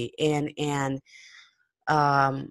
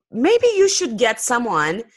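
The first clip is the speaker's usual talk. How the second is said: higher, mildly mocking suggestion; 6 semitones higher than usual. Podcaster imitating a guy who mocked him, mildly mocking. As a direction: lightly imitate a mocker, pitched up. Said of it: "in a mocking voice".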